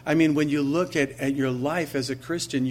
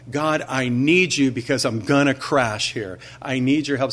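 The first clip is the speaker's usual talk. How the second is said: louder, pleading cry to God; desperate prayer; 6 dB louder than usual. Acted. Believer in crisis cries out to God, louder and pleading. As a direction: beg God for help like you're about to crash.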